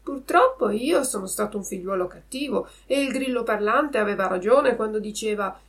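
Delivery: ordinary delivery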